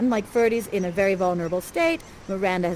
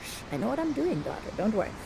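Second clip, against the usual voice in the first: softer, soothing father shushing; hushing the daughter; 7 dB quieter, faster than usual. Retold or imitated. Prospero quietly calming his daughter Miranda, softer. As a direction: hush her gently, you've got a plan. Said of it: "And I'm like".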